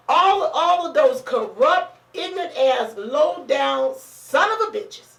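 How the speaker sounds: slow, deliberate emphatic insults; blunt cursing. Real, not acted. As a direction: drag out each insult for weight. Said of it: "have to say it like that".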